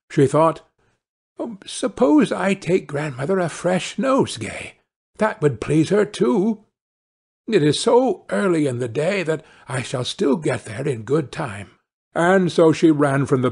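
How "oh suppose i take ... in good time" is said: put-on lightly raised girl's voice; a hint of pleased Little Red; pondering little girl. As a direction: muse innocently as a child. Girl thinks to herself.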